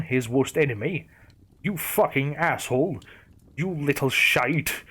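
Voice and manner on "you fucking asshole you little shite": angry growl. Acted. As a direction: spit the insults out with fury. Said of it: "he growled".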